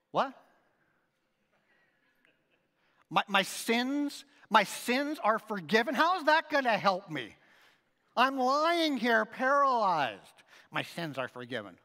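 puzzled man questioning the blessing; imagined bewildered reply. Retold or imitated. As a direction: voice a paralyzed man baffled by the words. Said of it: "his response was".

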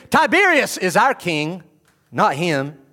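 high, loud scornful claim; mock leaders. Jewish leaders rejecting Jesus, loud scornful claim. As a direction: sneer it out.

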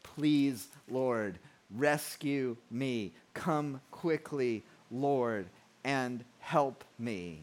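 slow, halting plea to the Lord; pleading cry. Acted. Psalmist crying out to God for rescue, slow measured pleading. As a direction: plead word by word, drawn out. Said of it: "so he cries out".

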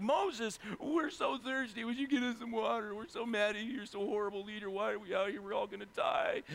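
whiny crowd, imitated; mock complaining. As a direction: play the parched people griping at their leader. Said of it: "these people are all complaining to him".

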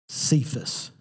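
Cephas, breathed softly; Aramaic name. Shown as a demonstration. Preacher softly naming Peter's Aramaic name Cephas. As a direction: give Cephas a hushed, careful reading. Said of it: "which is translated".

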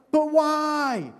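put-on high whining kid's "But why?"; whiny child. Child pestering parent, high whining "But why?".

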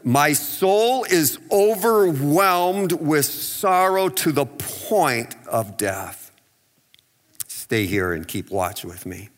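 slow, heavy, mildly sorrowful reading; Jesus in Gethsemane, understated sorrow. Acted. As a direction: let the grief weigh each word. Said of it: "began to be sorrowful and troubled".

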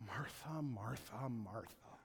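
quick scolding repetition, fading away; the wrong way, like a tired parent; exasperated nagging. Shown as a demonstration. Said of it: "I don't think he said it like".

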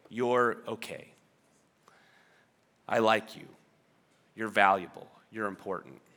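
quietly reassure, pausing between each affirmation; softly voiced words of approval; gentle affirmation. Voicing the approval people long for.

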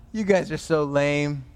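dismissive put-down after a laugh; mock them with amused scorn. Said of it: "he mocks them".

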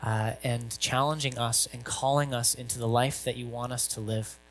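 hushed pastoral prayer. Acted. Opening prayer before sermon.

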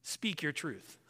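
a soft, low mock of the slogan society repeats; quoting a slogan. Preacher quoting society's slogan to the congregation, soft and dismissive. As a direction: toss off the slogan quietly, half-dismissive. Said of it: "society today will tell you".

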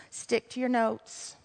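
soft self-reminder under the breath; muttered to self. Real, not acted. Preacher scolding herself to stick to her notes, muttered. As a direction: tell yourself quietly to stay on track.

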